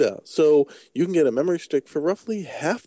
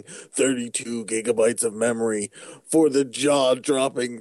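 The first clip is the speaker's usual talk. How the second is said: ad read; 2 semitones higher than usual. Pretend. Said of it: "Sony is paying for this ad space".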